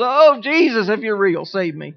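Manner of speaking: frightened shouted prayer; terrified plea. Retold or imitated. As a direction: beg for rescue mid-drop. Retelling terror on the coaster.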